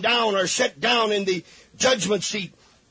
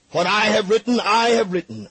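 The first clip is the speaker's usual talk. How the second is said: louder, firmer "What I have written"; firm declaration; 3 semitones higher, 4 dB louder than usual. Acted. Pilate refusing the priests, firm loud declaration. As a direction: plant your feet and declare it. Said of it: "enough principle to say".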